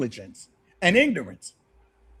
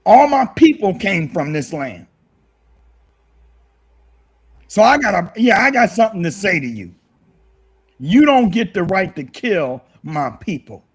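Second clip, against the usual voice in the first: getting emotional. Real, not acted. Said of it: "I got a little emotional".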